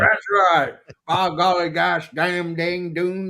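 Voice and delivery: mock J R commentator exclamations, slow; hammed-up announcer catchphrases, drawn out; J R impression. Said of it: "Good old J R".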